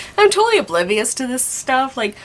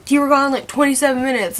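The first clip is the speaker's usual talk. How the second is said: retold reproach, pitched up and emphatic; insistent scolding; 5 semitones higher, 3 dB louder than usual. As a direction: drive the complaint home in a higher voice. Acted argument with coworker.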